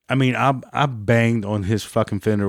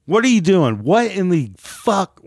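stunned angry yell; 6 semitones higher than usual. Retold or imitated. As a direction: yell it at the driver in disbelief. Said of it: "all I could say".

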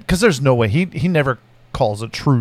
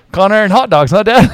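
teasing; 5 semitones higher, 5 dB louder than usual. Retold or imitated.

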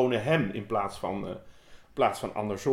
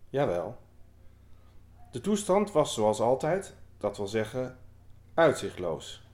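measured, deliberate poetry reading; poem reading. Acted. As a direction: read the poem aloud with weight and pauses. Reads a poem aloud.

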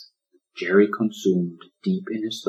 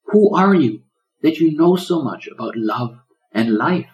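a higher, wondering little question; lightly voiced curious turtle; tiny turtle voice; 7 semitones higher, 5 dB louder than usual. Jerry asks Larry who he is, lightly high. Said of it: "asked Jerry".

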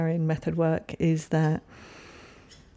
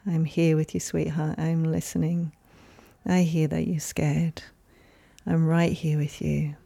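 loving mother. Retold or imitated. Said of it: "her words".

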